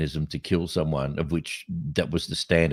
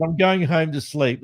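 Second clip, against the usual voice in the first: quoting the woman; 9 semitones higher than usual. Retold or imitated. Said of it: "She said".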